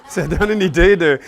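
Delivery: says it through a real laugh; amused, laughing repeat. Real, not acted. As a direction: let the laugh spill into the words.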